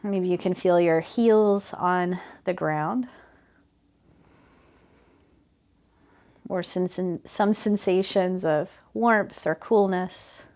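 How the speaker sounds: calm, even body-scan guidance with unhurried phrasing; guided meditation. Real, not acted. Teacher guiding students' attention from heels up to shoulders, guided meditation. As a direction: gently lead attention through the body, leaving space between phrases.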